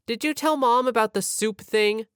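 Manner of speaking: high-pitched imitated little brother; urgent little brother. Sleepwalking little brother questions friend, high urgent voice.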